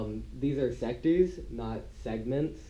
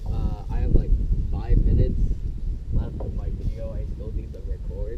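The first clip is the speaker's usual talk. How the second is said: loud; 10 dB louder than usual. Real, not acted. Loudly aware of time left.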